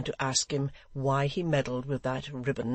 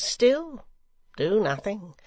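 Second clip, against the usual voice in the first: louder, much higher on still; taunting climax; 7 semitones higher, 5 dB louder, slower than usual. Acted. Secretary goading the rioters, high ringing taunt. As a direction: throw still up high, then drop.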